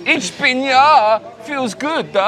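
a jokey German film crew voice; mock German accent. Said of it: "Those kind of German film teams".

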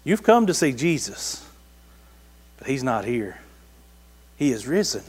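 quietly voicing an angel; angel's words. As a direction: drop the voice for the angel's message. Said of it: "an angel that says".

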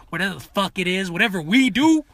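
usual speaking voice

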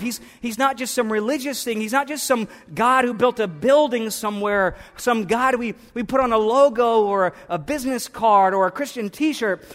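excited preacher's declaration; fervent preaching. Acted. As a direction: proclaim it to the whole church.

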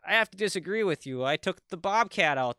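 put-on hesitant Minnesotan accent, politely disagreeing. The other guy answering about ice, mild Minnesotan accent. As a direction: lightly voice a second Minnesotan guy. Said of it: "the other guy would be like".

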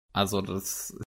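choppy, breaking-up line; bad connection. Real, not acted. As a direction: voice dropping out over the internet. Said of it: "dein Internet macht gerade einen kleinen Abflug". (abgehackte Internetverbindung)

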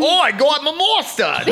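high, slow, hammed-up Canadian accent. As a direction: stretch out a mock Canadian accent. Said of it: "that's my Canada accent".

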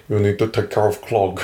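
mock Finnish accent, lightly hammed-up. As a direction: imitate a Finnish janitor giving orders. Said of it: "very, very thick Finnish accent".

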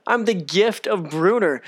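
slow, lightly voiced cocky boast; mock show-off. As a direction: brag like a self-proclaimed legend. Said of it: "I had to go into it all over again".

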